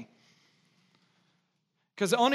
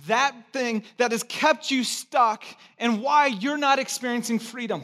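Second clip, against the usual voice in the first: louder, higher preaching push on each phrase; full-force preaching; 7 semitones higher, 6 dB louder than usual. Acted. Pastor urging the church, rising preaching voice. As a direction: preach it out to the congregation.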